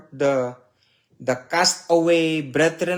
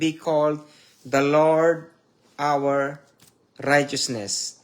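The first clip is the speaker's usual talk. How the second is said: solemn scripture reading; 2 semitones higher than usual. Acted. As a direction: proclaim the prophecy as God's own words. Preacher reads scripture aloud.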